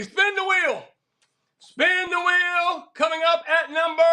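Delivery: high, drawn-out call to spin; hyped spin call. Real, not acted. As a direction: hype up the spin like a host. Spinning the prize wheel.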